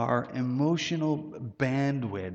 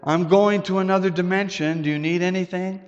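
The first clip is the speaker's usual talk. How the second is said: high and louder, breezy wife's voice; comic wife's line; 7 semitones higher, 7 dB louder than usual. Retold or imitated. Wife stepping through the wall telling her husband, in a high breezy voice. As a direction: toss it off like a cheery wife leaving the room. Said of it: "And she says".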